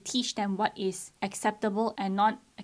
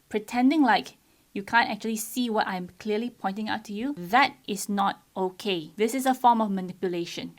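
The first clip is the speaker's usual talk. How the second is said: firm; 5 dB louder than usual. Retold or imitated. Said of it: "I was very firm with them".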